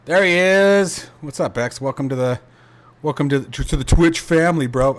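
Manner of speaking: overexcited streamer welcoming a viewer; too much caffeine. Real, not acted. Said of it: "I'm sounding weird".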